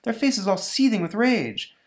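high-pitched woman character voice; high, dismayed damsel voice; alarmed Elsa. Acted. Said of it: "says Elsa".

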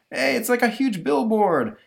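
high, loud exclamation; excited bystander's cry; amazed onlooker. Acted. Amazed onlooker voiced in story.

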